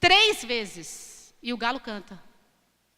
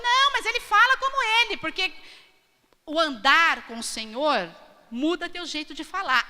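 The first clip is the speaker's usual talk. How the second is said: accusing bystander; 3 semitones higher than usual. Retold or imitated. Second accuser voiced.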